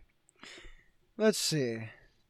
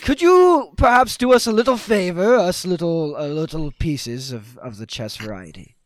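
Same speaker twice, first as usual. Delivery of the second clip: lightly regal, fading down at the end; politely grand request; king's voice; 7 dB louder than usual. Acted. The chess king asks the party for a favor, lightly regal.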